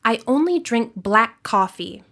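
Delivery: "black coffee" joined by one held K; one long K in "black coffee", released once; linked consonants. Shown as a demonstration. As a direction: hold the shared K between "black" and "coffee". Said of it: "you hold that sound a little longer".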